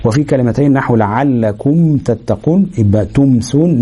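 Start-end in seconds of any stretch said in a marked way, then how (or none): 1.0-2.7 "لعلكم تتقون" slowly, with a distinct m before t; clear meem. Shown as a demonstration. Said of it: "ويسمى إظهارا شفويا". 3.0-3.8 "تمسون" slowly, with a distinct m before s; clear meem. Shown as a demonstration. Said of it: "تبقى واضحة كده مظهرة".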